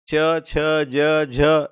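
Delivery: च, छ, ज, झ slowly, each syllable drawn out; consonant group demo. Shown as a demonstration. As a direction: sound out च, छ, ज, झ one at a time, slowly. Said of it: "एक ही जगह से प्रोनाउंस होता है". (च, छ, ज, झ का धीमा, अलग-अलग उच्चारण)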